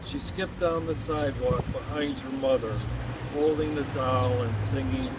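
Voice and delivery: measured poem reading with pauses between phrases; poem recitation. Acted. Poet mourning a girl killed in war, poem recitation. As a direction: recite it line by line, letting each phrase settle.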